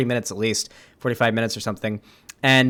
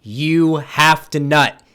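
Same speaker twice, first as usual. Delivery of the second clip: mildly exasperated partner laying down the law; imitating a stern order; retold firm scolding; 3 dB louder than usual. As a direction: lightly act out an insistent telling-off. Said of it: "She's like".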